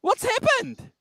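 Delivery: high, squeaky voice from a bad connection; helium-sounding. Real, not acted. Host heard over a glitchy line, squeaky high. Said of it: "He's been breathing the helium balloons".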